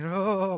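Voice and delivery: loud, drawn-out mock "oh"; imitated "oh". Congregant under the preacher's pressure, loud mock groan. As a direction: act out a congregant's long "oh". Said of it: "like this".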